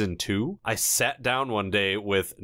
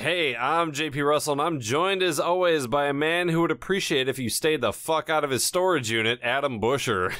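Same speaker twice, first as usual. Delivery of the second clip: announcer-style show opening; podcast host intro; 5 semitones higher than usual. Acted. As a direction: welcome the listeners with a showman's lift.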